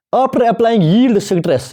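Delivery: slow, word by word dictation. Shown as a demonstration. Teacher reading the notes aloud to the class, slow and deliberate. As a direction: spell out the phrase slowly for note-taking.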